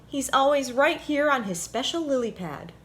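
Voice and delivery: a hint of a fretting little rabbit; bunny voice. A narrator's reading. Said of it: "asked Buddy Bunny".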